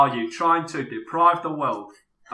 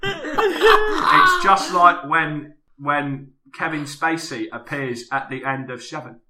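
lightly voiced London actor; hint of a Cockney film star; Michael Caine impression; 6 dB louder than usual. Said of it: "Michael Caine".

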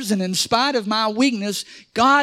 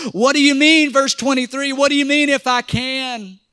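incredulous; 5 semitones higher, 3 dB louder than usual. Retold or imitated. Incredulous echo of the question.

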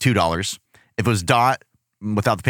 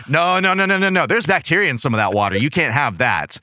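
stern dad. Retold or imitated. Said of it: "He's like".

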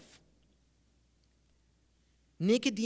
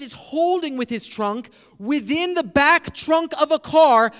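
building louder and higher into absurd theorizing; mock over-interpretation; 4 semitones higher, 5 dB louder than usual. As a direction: pile up a far-fetched theory with growing force. Acts out an absurd over-reading.

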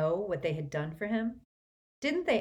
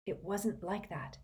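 softer, tight-jawed anger; through gritted teeth; 7 dB quieter than usual. A narrator's reading. Harry, frustrated with Mr Weasley: softer, through gritted teeth. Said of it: "through gritted teeth".

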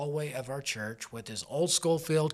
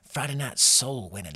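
put-on southern accent; 3 dB louder than usual. Preacher recalling Friday night outreach, southern accent. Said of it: "I say it with a southern accent".

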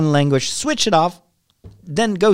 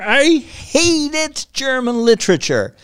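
high, drawn-out exasperation; exasperated venting; 12 semitones higher, slower than usual. Real, not acted. Podcaster venting about German literature from school, exasperated. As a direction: stretch every word out in high-pitched loathing.

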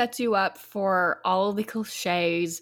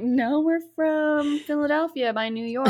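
retold correction; 7 semitones higher than usual. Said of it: "I was like".

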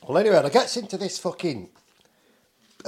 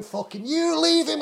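much higher and slower, imitating a woman screeching in anger; mock furious yell; 12 semitones higher, 4 dB louder, slower than usual. Woman with a broom yelling at the man who threatened him, imitated furious yell. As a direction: play the woman flipping out at the attacker. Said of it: "Flipping out".

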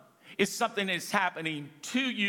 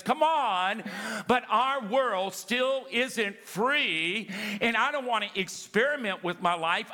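full-force preaching; 3 semitones higher than usual. Acted. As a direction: preach it up to a climax.

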